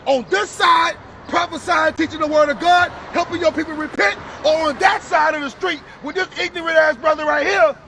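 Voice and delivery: forceful, emphatic preaching; street preaching. Real, not acted. Preacher to brother about Israel's promises, forceful preaching.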